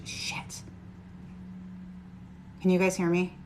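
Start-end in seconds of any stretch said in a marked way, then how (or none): 0.0-0.6 a quick whispered swear under the breath; whispered curse. Real, not acted. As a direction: curse softly to yourself, barely voiced. Realises Bluetooth is still on.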